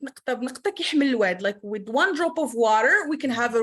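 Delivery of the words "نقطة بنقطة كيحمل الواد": quick Moroccan Darija saying; Moroccan Arabic proverb. Real, not acted. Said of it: "As we say in our Moroccan dialect".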